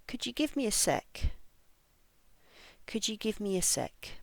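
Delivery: "give" and "sec" stressed, small words light. Shown as a demonstration. Teacher models asking for extra time, stress on "sec". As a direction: stress "sec", keep "a" weak and short. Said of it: "I'm going to read the phrases".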